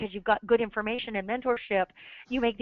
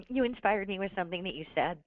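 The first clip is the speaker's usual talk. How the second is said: coughing up water; faster than usual. Real, not acted. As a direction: still coughing, throat rough. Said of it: "I just drank some water and it went down the wrong pipe".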